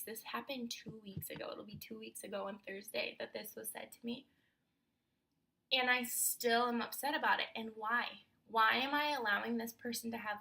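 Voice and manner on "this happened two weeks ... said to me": soft whisper. Real, not acted. Upset quiet aside.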